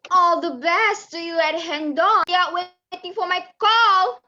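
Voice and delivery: smirking. Acted. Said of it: "Datin Ani smirked".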